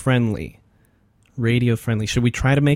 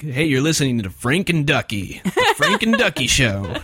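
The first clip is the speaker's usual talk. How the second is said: radio host voice. Retold or imitated. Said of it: "I'm gonna talk like this".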